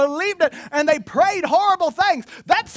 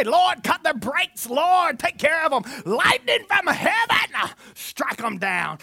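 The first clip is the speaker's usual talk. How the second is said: mock vengeful prayer; slower than usual. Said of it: "go ahead and pray".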